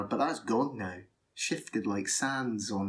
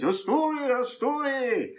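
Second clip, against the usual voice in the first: trumpeting elephant; 13 semitones higher, 4 dB louder than usual. Acted. Elephant clamouring for a tale, trumpeting excitedly. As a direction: trumpet the words out high. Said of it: "starts to trumpet up and says".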